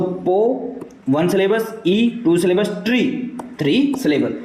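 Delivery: पो, ई, ट्री said as three separate syllables. Shown as a demonstration. Teacher counting syllables for students, पो, ई, ट्री pronounced separately. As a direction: count off पो, ई, ट्री, each syllable set apart. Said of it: "इसमें three syllable है".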